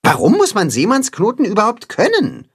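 annoyed question. Acted. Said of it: "fragt er".

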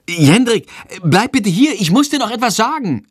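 calling out, high and urgent; calling after him. Acted. Mother calling her son back before he runs, urgent call. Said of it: "ruft sie".

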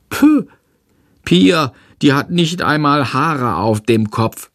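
put-on a little kid asking to join in; little brother. Tom voiced.

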